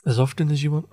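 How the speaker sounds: talking through a yawn. Real, not acted. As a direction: yawn mid-sentence. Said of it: "I just yawned there".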